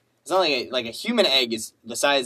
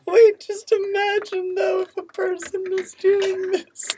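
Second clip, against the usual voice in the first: laughing; slower than usual. Real, not acted. Laughing disbelief, high.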